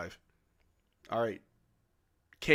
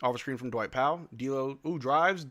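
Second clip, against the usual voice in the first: ordinary delivery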